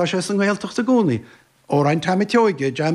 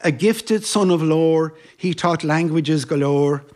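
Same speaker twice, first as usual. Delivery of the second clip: poem recitation; 2 semitones lower than usual. Acted. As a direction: recite it line by line, unhurried.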